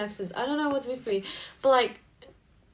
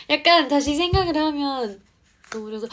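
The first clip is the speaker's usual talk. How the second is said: normal talking voice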